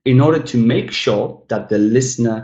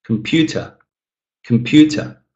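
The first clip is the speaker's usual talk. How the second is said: comPUter with a louder, higher PEW; stressed second syllable; 4 semitones higher than usual. Shown as a demonstration. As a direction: punch the middle of "Computer", keep both ends weak. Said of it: "it's louder as well".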